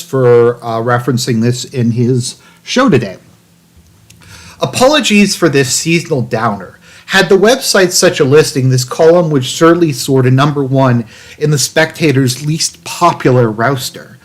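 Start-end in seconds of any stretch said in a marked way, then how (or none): 4.6-14.2 lightly voiced catty reader, a touch arch. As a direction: read it with a hint of cattiness. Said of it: "I don't know why I'm doing that voice".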